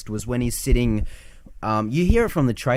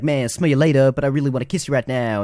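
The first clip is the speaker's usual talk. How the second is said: quick retold voiceover chatter; fast Louise-style talk; 3 semitones higher, faster than usual. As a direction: rattle it off like an excited storyteller's dubbing. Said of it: "they talk as fast as Louise does".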